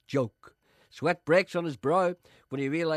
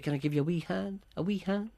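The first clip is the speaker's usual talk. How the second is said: soft, not intruding; 3 semitones higher, 3 dB quieter than usual. Shown as a demonstration. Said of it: "I don't want to intrude".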